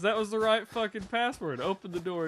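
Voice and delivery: retold outrage at being locked out; exasperated demand. Character arguing with a talking door, exasperated.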